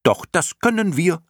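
high squeaky contradiction, lilting up on "können"; defiant clown moth. A narrator's reading. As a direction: pipe back cheekily. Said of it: "antwortete eine andere". (freche, hohe Mottenstimme)

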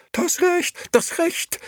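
very high, loud, outraged echo; incensed. A narrator's reading. Liliana mocks her husband's claim, incensed. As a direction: throw the words back indignantly. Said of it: "erwiderte Liliana aufgebracht".

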